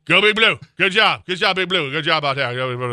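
loud cheering for the team; rally the Giants fans, loud and proud; mock cheer. Host cheering on the Giants to fans, loud mock cheer.

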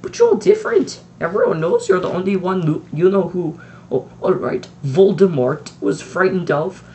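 lightly voiced strict professor, insisting; McGonagall voice. A narrator's reading. Strict witch praising the headmaster, insistent.

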